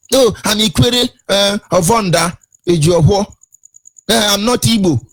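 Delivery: mock someone disowning their people, pitch lifted; imitating a hesitant, protesting denier; mocking denial. Mimics Ikwere people denying being Igbo.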